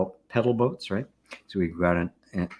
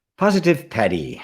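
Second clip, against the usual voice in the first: name said with a put-on Irish accent; 4 semitones higher, 4 dB louder than usual. Answering someone's question, the speaker says a name in an irish accent. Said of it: "I have to say it with an Irish accent".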